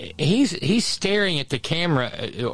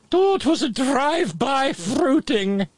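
camp mock aside; 12 semitones higher than usual.

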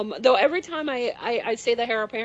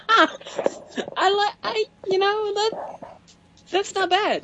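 laughing; 10 semitones higher, much slower than usual. Real, not acted. Laughing at the Hatler joke.

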